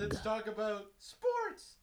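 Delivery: slow, loud jock voice. Acted. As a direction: drawl it like a meathead. Dudebro voice.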